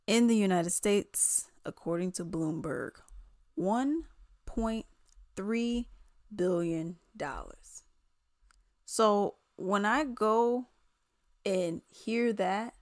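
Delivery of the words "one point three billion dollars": "One point three billion dollars" word by word, pause after each; emphatic figure. Real, not acted. Hammering home the singer's fortune, "billion dollars" slow and spaced out.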